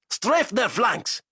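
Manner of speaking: slow, high, loud command; drawn-out order. Acted. Zayson ordering the gunners to strafe, slow high loud. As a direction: stretch out each word of the order. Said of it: "Zayson ordered".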